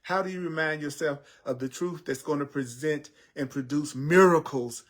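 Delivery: earnest, rhythmic preaching over music; spiritual teaching. Acted. Teacher urges listeners to remember the truth, earnest preaching. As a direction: preach it steadily.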